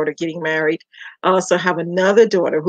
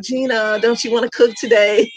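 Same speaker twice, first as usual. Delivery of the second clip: raised-pitch playful quote of a nickname; teasing staff; 5 semitones higher than usual. Retold or imitated. Staff nickname her after a TV character, lightly mimicked teasing. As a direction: lightly imitate staff calling, higher pitched. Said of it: "they'd be like".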